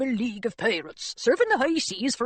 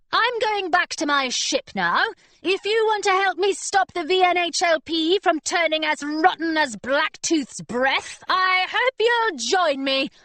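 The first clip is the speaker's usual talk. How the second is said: put-on lightly raised young girl voice; 6 semitones higher than usual. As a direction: voice a plucky young girl captain. Hilary speaks, girl captain.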